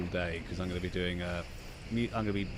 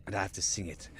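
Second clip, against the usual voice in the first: Gorn voice; 6 dB quieter than usual. Shown as a demonstration. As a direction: drag the words out like a Gorn. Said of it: "with my Gorn voice".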